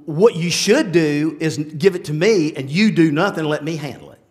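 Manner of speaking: low, softening divine counsel; calm, low-pitched acted reassurance; calm voice of the Lord. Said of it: "what the Lord says".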